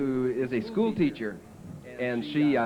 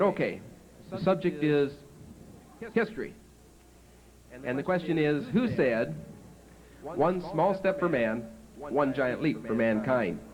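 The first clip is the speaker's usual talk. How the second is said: teacher voice; 3 semitones higher than usual. Retold or imitated. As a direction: draw the question out like a teacher. Teacher posing quiz question.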